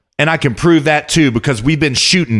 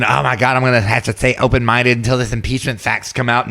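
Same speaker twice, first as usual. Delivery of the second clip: mocking timid politicians; 2 semitones lower than usual. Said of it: "they were all gonna cuck out".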